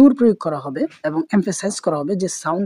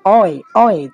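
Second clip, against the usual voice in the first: louder অয়ে with pressure from the throat; pressed stressed syllable; 6 dB louder than usual. Shown as a demonstration. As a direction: push অয়ে out firmly, twice. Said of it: "গলার মধ্যে একটা pressure create হচ্ছে".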